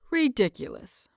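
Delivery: a light mock of his husband's calm, even tone; imitating Lan Zhen. Husband teasing husband in bed, light mock impression. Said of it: "a fairly decent impression of Lan Zhen's usual tone".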